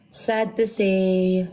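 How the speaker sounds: drawn-out reveal. Acted. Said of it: "Sabi niya".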